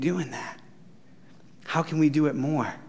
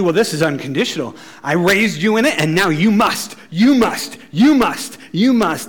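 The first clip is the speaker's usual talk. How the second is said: louder, insistent, hammering the word you; demanding parent; 4 dB louder than usual. Retold or imitated. A parent pressing a child to obey, insistently. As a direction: lay down the law like a strict parent.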